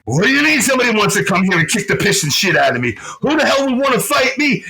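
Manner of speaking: imitated fast, high-pitched bluster; indignant ranting. Man hearing somebody wants to fight him, acted indignant rant. Nitten walks up ranting, overheard.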